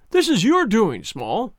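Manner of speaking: sharp, angry accusation. A narrator's reading. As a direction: bark the accusation angrily. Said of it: "said Athelney Jones angrily".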